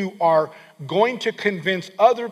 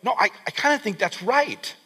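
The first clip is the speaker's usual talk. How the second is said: mock hesitant believer; 2 semitones higher, 3 dB quieter than usual. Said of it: "it's gonna sound at first like".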